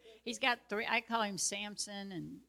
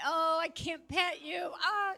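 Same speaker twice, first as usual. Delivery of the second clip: high, louder cooing lament to a pet; mock lament; 8 semitones higher, 5 dB louder than usual. Owner telling the sad cat she can't pet him, high mock lament. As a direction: wail it high in playful pity.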